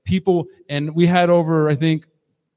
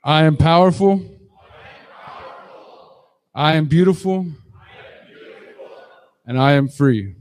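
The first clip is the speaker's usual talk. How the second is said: booming motivational speech. Acted. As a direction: call it out with full force. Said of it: "we gotta do that again".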